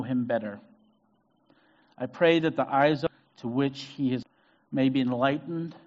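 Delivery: measured, solemn reading of Ephesians; scripture reading. Acted. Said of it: "It's from Ephesians".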